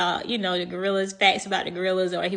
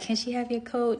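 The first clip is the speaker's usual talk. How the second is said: lightly voiced daughter, pitched up; daughter asking dad; 4 semitones higher, 3 dB quieter than usual. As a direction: imitate a daughter's request in a slightly higher voice. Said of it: "his daughter, she noticed".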